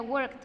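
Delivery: worked as one syllable, "workt"; final T sound. Shown as a demonstration. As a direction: close worked on a T with no extra vowel. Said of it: "con una T al final". (worked dicho "workt", con T al final)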